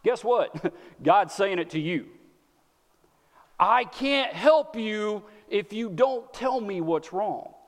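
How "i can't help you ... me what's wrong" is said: slow, tender plea from God; gentle God voice. Retold or imitated. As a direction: say it slowly, inviting an answer. God voiced saying same line.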